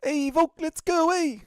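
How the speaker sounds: put-on loud, high New Zealand accent yell; Dan Hooker New Zealand accent. Streamer asked by chat for a Kiwi fighter, loud New Zealand accent. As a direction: shout it like a Kiwi fighter in the cage. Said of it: "Can you do a Dan Hooker New Zealand accent?".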